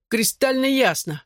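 high, slow pained moan; groaning.

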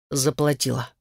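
sullen, through clenched teeth. A narrator's reading. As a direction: grind the word out, barely opening the jaw. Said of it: "процедил он сквозь зубы".

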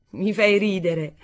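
slow, scornful retort; extreme disdain. A narrator's reading. Narrator answering the mother, with extreme disdain. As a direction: draw it out with contempt. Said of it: "fischiai con disdegno estremo".

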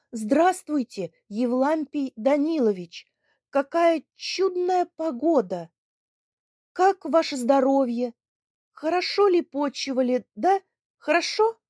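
high, loud, forced cheerful shout; shouting over sobs. Acted. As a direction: shout cheerfully to drown out the crying. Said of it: "принялся кричать Лемеру". (громкий нарочито весёлый крик)

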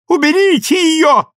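very high, loud hysterical scream; mother screaming in hysterics. A narrator's reading. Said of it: "закричала она".

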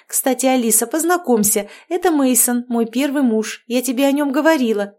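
bubbly overbearing mother-in-law chattering; cheerful witch. Acted. Marianna chattering. (ведьма щебечет слегка выше обычного)

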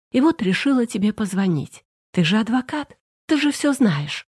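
a hint of a tearful friend pleading for help; upset young woman. Natasha's voice, held.

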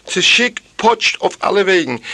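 high, strained lament of a wanderer; lamenting character voice. Acted. Tevye lamenting his lost road, high and pained. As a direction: cry out the complaint high and pained.

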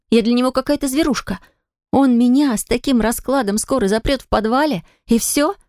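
put-on a young woman venting her fear and anger; young heroine upset.

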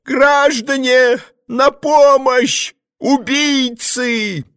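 тонкий высокий крик, медленно; отчаянно и тонко позвать на помощь; thin cry for help. A narrator's reading. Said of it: "крикнул тонко". (тонкий, медленный крик о помощи)

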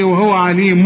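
عليم ending "mum" instead of "mun"; tanween turned m. Shown as a demonstration. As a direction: close عليم on a hummed m. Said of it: "اقلب التنوين إيه لميم". (إقلاب تنوين عليم ميمًا)

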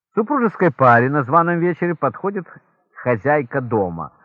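ordinary talk

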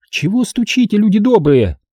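lightly voiced village woman. A narrator's reading. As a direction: ask the knockers what they want. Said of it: "спросила полная сестра Татьяна".

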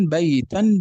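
"بيتا" ending in -tan; fatha tanween. Shown as a demonstration. Teacher showing what tanween is, fatha tanween. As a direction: sound the final -an of "بيتا". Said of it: "هذا هو ما يسمى بالتنوين".

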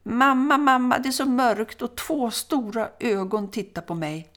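put-on high, loud frightened child's call; son calling out. Son outside calling to mother in the kitchen about staring eyes, high frightened shout. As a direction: call across the yard to mother, scared. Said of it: "mamman sonen ropa".

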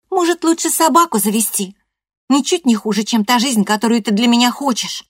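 high, loud, mocking girl's voice; teen girl sneering at grandma's plans, high and loud; sarcastic teenage girl. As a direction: throw it back with scorn. Loreda's voice, sarcastic.

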